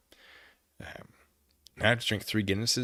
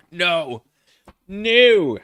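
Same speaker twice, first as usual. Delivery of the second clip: loud refusal; 7 semitones higher, 14 dB louder than usual. Real, not acted. Refusing five hour stream.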